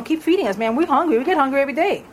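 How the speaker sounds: high-pitched mock begging of a hungry crowd; crowd pleading. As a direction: plead like folks wanting another meal.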